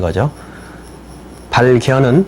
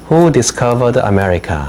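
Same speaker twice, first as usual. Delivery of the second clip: slow dictation read; much slower than usual. Shown as a demonstration. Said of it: "teacher reads a dictation question".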